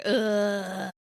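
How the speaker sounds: drawn-out "ugh"; disgusted groan. Retold or imitated. Friend recalls seeing a creepy picture of him, disgusted groan. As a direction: groan it out in distaste.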